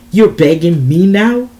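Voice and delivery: loud, mocking question; sardonic. A narrator's reading. Xander taunting the woman begging him, sardonic mockery. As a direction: throw the question back sardonically. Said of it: "said with a sardonic laugh".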